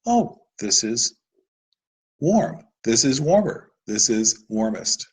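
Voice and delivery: patient classroom modelling voice; teacher demo to a child. Shown as a demonstration. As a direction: gently lead a child through warm, warmer, warmest, lifting the pitch a little on warm. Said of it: "we go back to period one".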